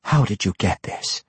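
controlled, menacing question; sharp, threatening. A narrator's reading. Matron mother interrogates Tosin, sharply threatening. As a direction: ask sharply with a veiled threat. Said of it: "asked sharply, her threat clear in her tone".

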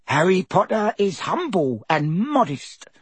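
high, slow elf voice full of awe; reverent elf. A narrator's reading. Dobby praises Harry, high reverent elf voice. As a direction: speak as if to a hero. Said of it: "said Dobby reverently".

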